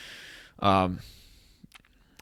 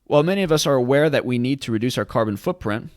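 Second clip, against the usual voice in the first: re-read louder, with "many" pushed and "are aware" stated clearly; deliberate re-read; 3 semitones higher, 4 dB louder than usual. Shown as a demonstration. Re-reading the misread article line for viewers, careful and louder. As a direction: read it again carefully, louder, to correct the slip. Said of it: "let me read that again".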